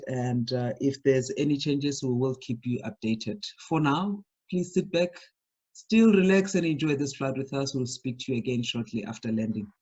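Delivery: lightly voiced airline captain, calm and measured; a hint of a captain's cabin address; pilot announcement. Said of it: "just do that voice when you're in the cockpit".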